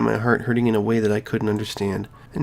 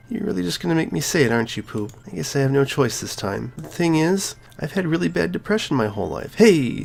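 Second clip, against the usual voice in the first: put-on high girlish voice, hurt and pleading; a cheerful girl cracking open about her pain; Sayori's voice; 5 semitones higher than usual. Sayori confesses depression.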